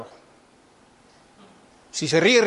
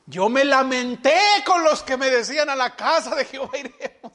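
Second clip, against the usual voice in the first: the same psalm turned into a moping mock lament; 3 semitones higher than usual. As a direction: sigh the verse as if it were a burden. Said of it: "imagínese".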